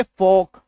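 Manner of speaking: फॉक with no L before the K; silent L. Shown as a demonstration. Teacher reading folk after cutting the L, silent L. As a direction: say फॉक slowly, vowel straight into K. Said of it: "अब पढ़ो इसको".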